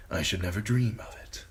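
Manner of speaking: hushed sly aside; mocking whisper. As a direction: breathe it as a teasing secret. Littlefinger mocks Varys.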